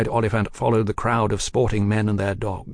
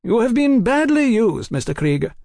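sympathetic; 12 semitones higher, 3 dB louder than usual. Acted. Sympathetic remark to Krieger.

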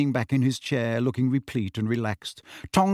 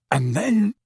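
higher, mirth-choked storyteller; choking with laughter; 8 semitones higher, 4 dB louder than usual. A narrator's reading. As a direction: voice caught by suppressed laughter. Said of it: "choked Mundungus".

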